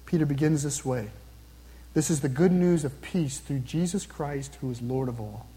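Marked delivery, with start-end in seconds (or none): 2.0-5.5 lower, softer, deliberate restatement; slow repeat. Real, not acted. Preacher restating Peter's good news to the congregation, slow and subdued. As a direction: repeat it slowly and quietly, settling down at the end. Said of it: "I'm gonna repeat them again slowly".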